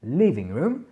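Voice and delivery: living room with LIV- stressed and room lighter; accent sur la première syllabe. Shown as a demonstration. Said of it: "l'accentuation est sur la première syllabe".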